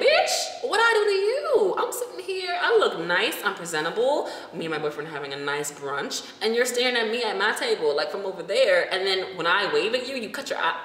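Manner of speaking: high, sassy confrontation of a stranger; sassy call-out. Retold or imitated. To a staring woman at brunch, a sassy high call-out.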